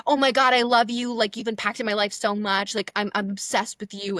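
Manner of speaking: loud opening, then eager gush; excited mock gushing; gushing fan. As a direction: imitate an adoring fan going off. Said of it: "they're going off on me".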